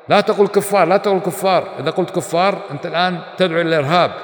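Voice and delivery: wag a finger the way the critic would; mock scolding. Preacher mimicking critics who forbid the word, mock scolding.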